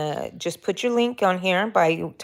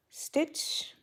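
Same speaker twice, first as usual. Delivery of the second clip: breathy whispered word; 10 semitones higher, 9 dB quieter than usual. Real, not acted. Crochet host whispering a stitch count to herself. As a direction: drop to a whisper on the last word.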